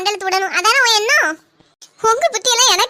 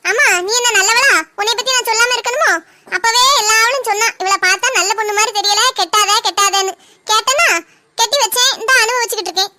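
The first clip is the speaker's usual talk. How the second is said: louder, accusing quarrel; heated scolding; 4 dB louder than usual. Acted. Mother-in-law scolding daughter-in-law, heated. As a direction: let her have it in a row.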